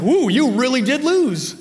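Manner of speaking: loud slow gloating tease; teasing. Retold or imitated. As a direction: rub it in loudly. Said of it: "I'm like".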